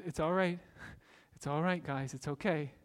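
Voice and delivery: calm them kindly; soft reassurance. Retold or imitated. Joseph reassuring brothers.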